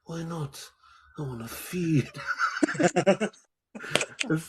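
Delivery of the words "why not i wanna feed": a hint of swagger, laughing; swaggering Jake. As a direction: toss off the line with mild swagger. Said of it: "he's got this swagger".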